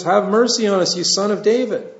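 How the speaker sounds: high retold plea; imitated crying out. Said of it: "they cried the more".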